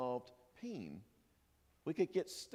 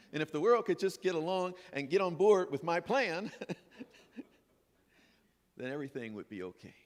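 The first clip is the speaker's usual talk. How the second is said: louder, pushy mock wish; mock demand; 5 dB louder than usual. Mocking the ego's wish for control, in mock insistence. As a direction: demand the world follow your plan.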